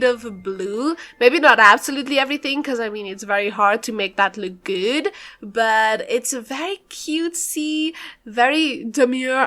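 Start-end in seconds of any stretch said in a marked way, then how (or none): 5.4-9.5 slow, dainty TikTok trend voice; very demure TikTok. Pretend. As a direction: drawl it like the demure meme. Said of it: "TikTok has been eating at my brain".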